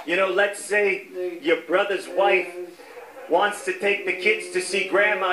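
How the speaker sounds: lightly voiced governor, relating to the people; mock governor slipping into family troubles; Andrew Cuomo. Governor shares his household problem with the public, lightly imitated. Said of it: "he'd be like".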